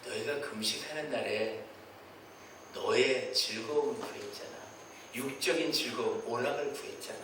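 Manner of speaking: low, grave voice of God rebuking; a measured divine scolding; God's rebuke. Acted. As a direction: speak down as God, reproachful. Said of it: "이분이 뭐라고 말씀하시냐면".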